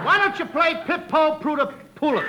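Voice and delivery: the song title said with its T's swapped for P's; mimicking the P lisp. Costello mocking Tommy with a song title. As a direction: swap the T's for P's. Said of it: "got me talking like that".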